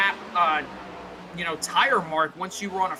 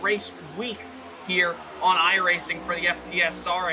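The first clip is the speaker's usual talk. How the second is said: live play-by-play. Real, not acted. Race announcer calling the lead battle to viewers, live play-by-play.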